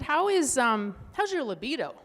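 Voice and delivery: a touch of mock doctor, prying question; imitating the doctor asking about libido; quoting the doctor. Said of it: "And then she said".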